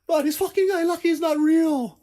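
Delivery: mock furious player cursing the game; sore-loser trash talk. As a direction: blame the game, fuming at the screen. Losing at Street Fighter.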